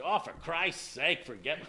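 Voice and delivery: Mother exasperated. Retold or imitated. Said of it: "sounds like something Mother will say".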